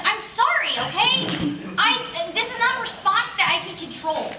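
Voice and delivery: exasperated protest. Retold or imitated. He answers the annoyed pranksters with a high, loud apology. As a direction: plead your case, half laughing.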